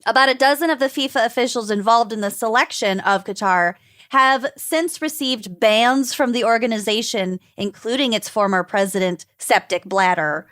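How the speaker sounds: measured newsreader delivery; news anchor voice. Acted. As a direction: read it like an evening news anchor. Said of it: "I love when you use your news anchor voice".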